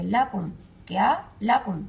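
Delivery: clipped لَكُمْ; short laam. Shown as a demonstration. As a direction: cut the vowel off fast. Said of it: "لاکم نہیں پڑھیں گے".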